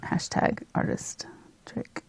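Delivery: slow, breathy whispered hashtag; whispered aside. Shown as a demonstration. Painter whispers a playful hashtag to her viewers, slowly.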